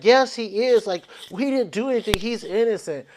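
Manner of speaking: a hint of zonked protest; drunk roommate. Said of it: "she answers it drunk".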